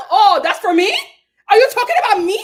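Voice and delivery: high, loud mock offence; mock Alexia. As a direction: play her affronted, loud and high. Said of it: "Alexia was like".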